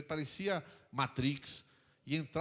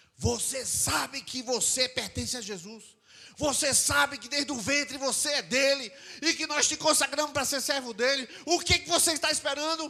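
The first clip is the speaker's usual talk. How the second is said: shrill, high, loud, insistent yelling; 10 semitones higher, 8 dB louder than usual. Retelling how someone stood over the speaker with a finger: imitating someone yelling. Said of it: "E gritando comigo".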